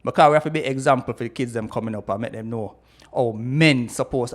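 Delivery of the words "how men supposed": men leaned on, slow and deliberate; stress on men. Real, not acted. Explaining how men should be, stressing men. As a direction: dwell on the word men. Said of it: "I stress the word men".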